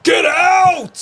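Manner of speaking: mock outraged high shout. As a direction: squeal it out in disbelief.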